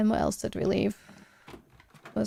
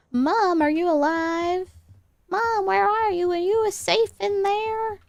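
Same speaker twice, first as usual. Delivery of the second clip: calling out for Mom, higher; raised voice calling through a wall; 8 semitones higher than usual. Real, not acted. Player calling out to her game mom.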